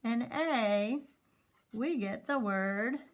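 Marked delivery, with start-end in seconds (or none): 0.0-1.0 "th and A" very slow; slow sounding out. Shown as a demonstration. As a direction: stretch each sound slowly. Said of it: "put these two sounds together".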